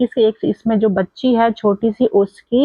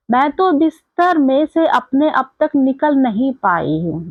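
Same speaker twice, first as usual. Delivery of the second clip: higher-pitched, measured verse reading; poem line recital; 4 semitones higher than usual. Acted. Teacher quoting a girl's words to Kiran, lilting recitation. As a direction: read the verse out for the class.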